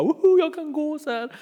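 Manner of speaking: high, whooping delight; overjoyed. Retold or imitated. Healed man cheering in the temple, high and overjoyed. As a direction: cheer like you can finally walk. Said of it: "blir jätteglad och bara".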